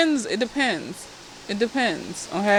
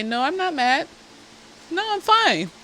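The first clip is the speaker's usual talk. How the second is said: calm denial; 7 semitones higher than usual. Acted. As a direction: keep the voice controlled while denying any anger. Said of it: "look at you very calmly and say".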